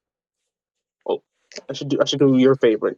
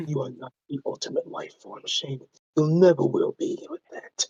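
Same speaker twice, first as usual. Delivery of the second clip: lightly voiced brooding Shadow; Shadow the Hedgehog; 6 dB quieter than usual. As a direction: murmur it like an edgy rival. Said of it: "poor attempt at Shadow the Hedgehog".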